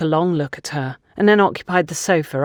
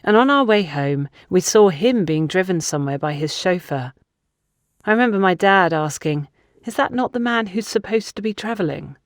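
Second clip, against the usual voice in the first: put-on confiding young woman; 3 semitones higher than usual. Funke telling Gabrielle about Antonia's neglected childhood, a hint of regret.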